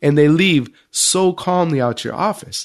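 a touch of disbelief at the calm exits; lightly hammed-up wonder; amazed question. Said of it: "he asks the prime minister".

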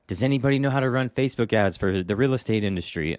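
lightly mocked eager novice; imitating a naive kid. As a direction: play the clueless kid bragging, then asking. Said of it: "a kid in a group saying".

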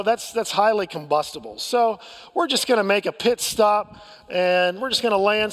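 lightly voiced pilot announcement, easygoing and unhurried; a touch of a breezy captain calmly telling folks about a diversion. Pilot over the intercom telling passengers about the diversion, mildly calm and nonchalant. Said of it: "in a very calm voice".

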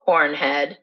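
understated name-calling after a pause; low-key insult. Acted. Troll taunting the goat, understated insult. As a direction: toss the insult out evenly.

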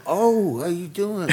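high-pitched mock polite hello; distant greeting. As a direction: greet awkwardly, high and keeping your distance. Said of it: "One of those distant hugs".

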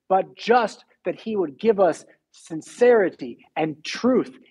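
earnest preaching. Acted. Slow earnest exhortation.

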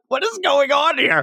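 high-pitched, incredulous outburst; mock bewilderment. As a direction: ask it way up high, playfully baffled. Acts out own baffled reaction.

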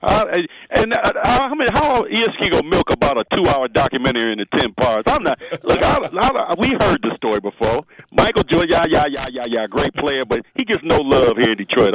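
booming through a megaphone; megaphone sound. Real, not acted. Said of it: "you sound like you're on, like, a megaphone".

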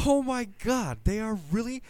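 stunned awe. Retold or imitated. Fan watching Luke arrive, squealing in awe. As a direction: squeal it like a fan who can't believe it.

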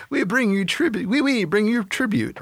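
high, squeaky cartoon French pea; hammed-up fake French "wee wee"; French accent. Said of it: "I can't do a French accent".

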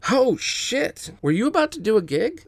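high, fast excitement; excited. Acted. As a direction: burst out eagerly. Excited at instrument.

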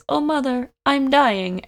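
mock tragic wail; melodramatic dying. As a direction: overplay a dying boy calling for mother. Boy hit by book.

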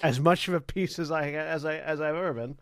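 lightly voiced German accent; halting try at a German accent; German accent attempt. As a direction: fumble through a mild German accent. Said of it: "In his accent, he says".

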